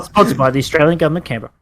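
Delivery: rushed government ad disclaimer; fast disclaimer read. Acted. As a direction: rattle it off like small print at x1.5. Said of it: "Spoken by a really fast speaker".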